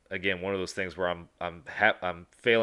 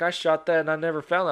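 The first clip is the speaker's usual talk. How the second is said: mock buddy voice; 9 semitones higher, 5 dB louder, faster than usual. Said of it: "He's like".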